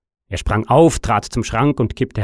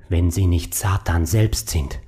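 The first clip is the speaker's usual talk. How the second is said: slow, low, hoarse murmur; 3 semitones lower than usual. Acted. The painter suspects his secretary is the devil, hoarse murmur. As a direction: mutter it hoarsely, slowly. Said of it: "murmelte er heiser".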